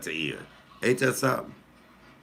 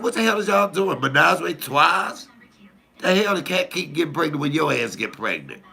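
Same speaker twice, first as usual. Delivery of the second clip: much higher, louder, scandalized scolding at the sister; mock outraged scolding; 8 semitones higher, 4 dB louder than usual. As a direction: scold her like it's a scandal. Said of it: "I said".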